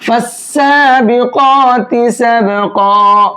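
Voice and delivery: slow, drawn-out melodic tilawat; Quran recitation. Shown as a demonstration. Teacher opens the lesson reciting slowly for students. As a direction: chant each word slowly, stretching the vowels. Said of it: "یہاں پر بھی دیکھیے".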